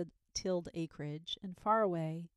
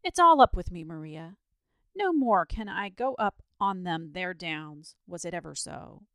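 agitated, despairing outburst; agitated exclamation; 8 dB louder than usual. A narrator's reading. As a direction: wail it out in alarm, drawing the words out. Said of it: "exclaimed with much agitation".

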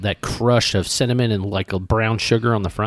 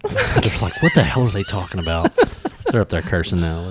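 laughing; 2 semitones lower than usual. Real, not acted. Laughing about kids upstairs.

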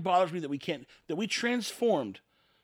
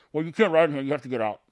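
mock Uber driver; 2 semitones lower, 7 dB louder, faster than usual. Uber driver voiced in retold exchange.

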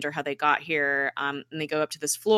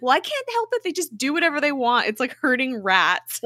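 much higher, whiny complaint; exasperated whine; 8 semitones higher, 4 dB louder than usual. Retold or imitated. Deke complaining to Tess about the team, high whiny voice. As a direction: squeak it out, fed up.

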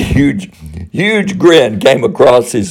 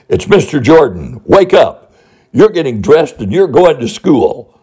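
firm wake-up call, higher and louder on wake up; loud commanding voice; 6 semitones higher than usual. Retold or imitated. Principal waking a sleeping boy in bed, loud and commanding. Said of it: "I said in a loud, you know, commanding voice".

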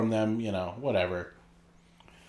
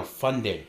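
"funding" set apart as a correction; stress on funding. Real, not acted. Co-host correcting a misheard question, stressing "funding". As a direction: stress "funding" as the key word. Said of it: "I said funding. That's the money word".

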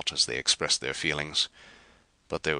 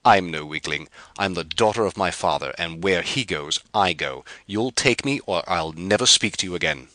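storming; 2 semitones higher, 4 dB louder than usual. Acted. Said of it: "she stormed".

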